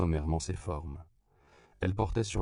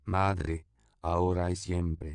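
nun's exhortation; slower than usual. A narrator's reading. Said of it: "exhorta une fois de plus".

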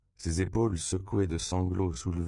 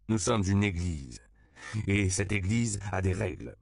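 slightly raised, declamatory priest; proclamation; 3 semitones higher than usual. A narrator's reading. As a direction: proclaim it as doctrine. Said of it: "proclama de rechef le père Octavio". (proclamer avec autorité)

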